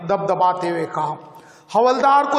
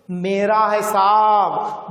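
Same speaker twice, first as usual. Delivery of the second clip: tearful plea; much slower than usual. Acted. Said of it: "कहते हुए रो पड़ी".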